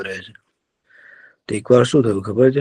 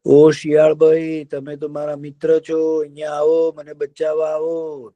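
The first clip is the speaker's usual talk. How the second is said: calling out to friend; 4 semitones higher than usual. Acted. Deer calls to fox.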